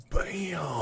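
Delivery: shrill, squeaky high-pitched bam. Shown as a demonstration. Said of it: "gasps, then shows quick transition".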